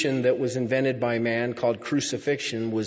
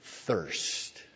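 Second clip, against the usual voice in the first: retold cry; 7 semitones higher than usual. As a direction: cry out the first word, pause, let the last fall away. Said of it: "He cried out".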